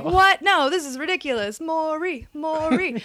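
high, loud indignant protest; mock outrage. Imagined normal person objecting to the bed offer, mock outrage. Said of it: "any normal person would be like".

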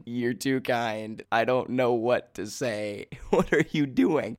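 laughing. Retold or imitated. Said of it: "standing there laughing hysterically".

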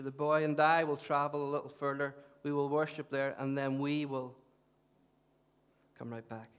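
measured public Bible reading, spaced phrases; scripture reading. Real, not acted. Preacher reads Abraham's testing to the congregation, measured scripture reading.

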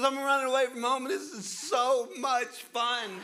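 put-on squeaky high, loud four-year-old voice; little girl thrilled on her adventure, high and loud; high excited little girl. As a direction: play a gleeful little girl, stretching the fun. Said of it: "She goes".

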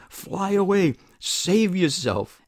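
urgent high yell, drawn out at the end; yelled plea. A narrator's reading. Woman urges Buzz to escape the car, yelling. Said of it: "she yells at Buzz".

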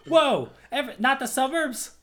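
loud, high whoa of disbelief; stunned by the pick; shocked. Real, not acted. Shocked at friend's album pick.

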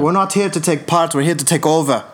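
put-on Irish fighter's accent, boastful declaration; Conor McGregor. Showing friends a fighter impression in an Irish accent. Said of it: "That's my McGregor".

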